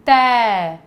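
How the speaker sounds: "तै" said loud and clear as "tai"; clear teaching demo. Shown as a demonstration. Teacher models the syllable for kids, loud clear demo. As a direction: sound out "तै" for the class, open and full. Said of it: "तो क्या बन जाएगा ये?".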